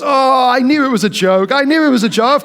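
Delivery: insist, as if you were never fooled; hammed-up face-saving protest; mock protesting. Retold protest of pranked friend.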